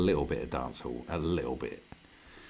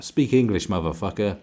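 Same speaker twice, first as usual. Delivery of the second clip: mock yell at screen; 7 dB louder than usual. Yelling at foreign streamer.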